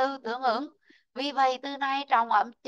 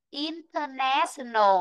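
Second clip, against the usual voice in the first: "Activity" slow, stress on "tiv", rise then fall on "verity"; stress on second syllable; slower than usual. Shown as a demonstration. Teacher drilling the class on word stress, slow and stressed. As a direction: say "Activity" slowly, "tiv" strong. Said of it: "Đếm đi ạ".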